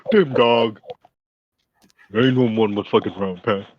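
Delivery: lightly imitated Hollywood Black-American accent; mock stereotypical Black-American voice. Listener joining in the actor impression, mock Black-American voice. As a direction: play at a movie-cliché Black-American voice. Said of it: "He just speaks like that".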